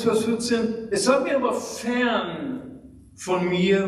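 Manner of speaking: ordinary talk, nothing marked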